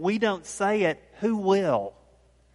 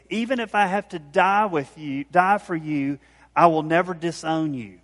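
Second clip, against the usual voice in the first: louder, firm retold vow; emphatic insistence; 5 dB louder than usual. Peter vows loyalty to Jesus, emphatically insisting. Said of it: "Peter insisted emphatically".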